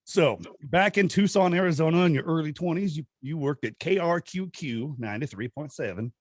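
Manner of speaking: a hint of a country accent while recapping a story. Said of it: "I don't know why I did a country accent".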